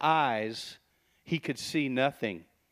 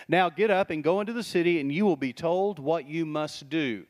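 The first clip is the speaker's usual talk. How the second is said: commanding order. Retold or imitated. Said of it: "Sounds like an order".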